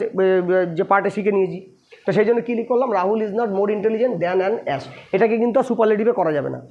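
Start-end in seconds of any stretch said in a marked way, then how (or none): 2.9-4.8 very slow, word by word dictation. Shown as a demonstration. Teacher dictating the English sentence to students, very slow. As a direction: spell it out slowly for students to copy down. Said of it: "teacher reads English sentence aloud".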